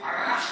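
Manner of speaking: "Rah" with the R rolled hard; rolled R demo. Shown as a demonstration. Preacher showing the church how to roll the R in "Rah". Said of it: "roll the R".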